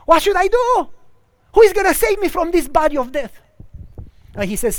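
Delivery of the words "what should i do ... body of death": high, loud anguished cry for help; desperate plea. Acted. Sinner pleads with God for rescue, in anguish. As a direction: beg to be rescued, voice straining upward.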